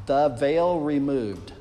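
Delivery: slow, clear dictation. Shown as a demonstration. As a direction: spell it out slowly. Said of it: "Type in".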